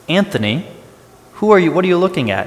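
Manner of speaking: sudden high, loud call-out; TV character calling out. Retold or imitated. TV character turns to the viewer, shouting. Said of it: "one of the characters coming out and going".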